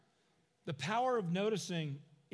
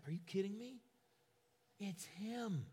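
softer, amazed realization; hushed disbelief; 2 semitones higher, 7 dB quieter than usual. Acted. Peter recognizes the risen Jesus, hushed disbelief. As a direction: let it dawn on you, hushed.

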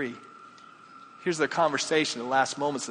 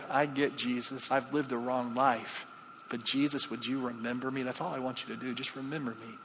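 quiet retold plea; 5 dB quieter than usual. Dying thief asks Jesus to remember him, quiet plea. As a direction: voice the thief's plea, letting it fade softly.

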